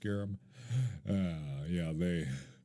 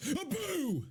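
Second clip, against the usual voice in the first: mock boo. Playful jump scare.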